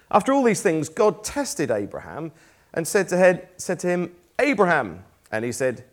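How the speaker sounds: steady, measured Bible reading voice; scripture reading. Acted. Preacher reading Genesis to his congregation, measured scripture reading. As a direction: read the passage out to the congregation.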